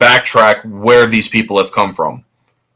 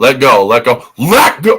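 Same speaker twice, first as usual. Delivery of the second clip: play-acted, vehement, insistent, fierce, drawn-out, rising; 2 semitones higher than usual. Describing a film scene where an actor screams at a scared girl, imitating Christian Bale screaming. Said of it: "He screams at the girl to let go".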